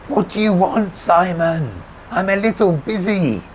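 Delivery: high, loud, impatient call; shouted retort. A narrator's reading. Rebecca answering the narrator over traffic, impatient shout. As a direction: shout back, too busy for this.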